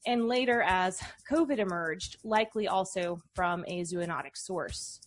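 measured, articulate podcast narration; scripted intro read. Real, not acted. Host introducing a research guest to listeners, scripted read.

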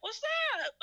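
very high-pitched mock hello; oblivious greeting. Storyteller wakes up and greets angry cousin, high and oblivious. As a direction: squeak it out as a comic retold greeting.

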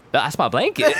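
laughing through the line, pitch up; mock dismay. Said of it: "But then I'm also like".

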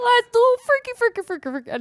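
high-pitched, half-hearted mock Spanish accent; attempted Spanish accent. Co-host trying the jingle in Spanish accent on request. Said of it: "Why don't you do it in Spanish accent".

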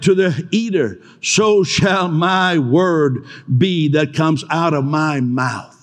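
measured, solemn reading of a verse; scripture reading. Acted. Preacher reading scripture to his flock, solemn.

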